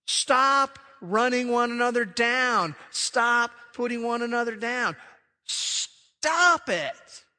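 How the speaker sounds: loud, slow repeated "Stop"; God commanding his people to stop, sternly; God's stern command. Acted. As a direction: order them to stop, building to a high loud "Stop it". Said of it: "he says".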